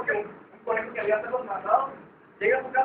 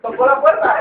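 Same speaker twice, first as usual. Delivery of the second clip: muy fuerte, anunciando el golpe; 10 dB louder than usual. Acted. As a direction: dilo como quien aporrea la puerta. (en voz muy alta)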